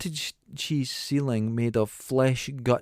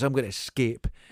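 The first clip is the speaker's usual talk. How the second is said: normal talking voice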